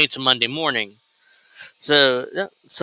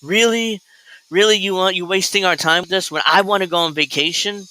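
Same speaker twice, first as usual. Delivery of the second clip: higher, whiny exasperated wife; annoyed wife voice; 5 semitones higher than usual. Retold or imitated. Wife complaining to Kyle about the video, higher whiny exasperation. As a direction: complain like a wife dragged from her holiday. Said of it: "She's like".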